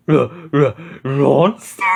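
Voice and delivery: dog voice stammering in fright, rising; Scooby voice. A narrator's reading. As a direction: stutter it like a scared cartoon dog. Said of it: "Scooby gulped".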